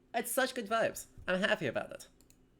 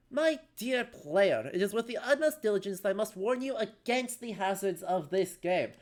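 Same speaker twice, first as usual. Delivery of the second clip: put-on English accent narrator. Streamer voicing the game's narrator, in an English accent. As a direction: read it like a stately English storyteller. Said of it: "I don't know why he's English".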